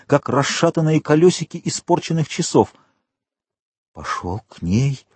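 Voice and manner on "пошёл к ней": softly echoing the words, stunned; whispered. A narrator's reading. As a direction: murmur it low to yourself. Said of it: "прошептал он".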